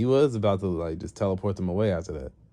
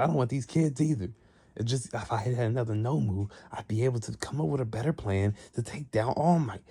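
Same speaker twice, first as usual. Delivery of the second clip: acted complaint; 5 semitones higher than usual. Acted villain complaining to master.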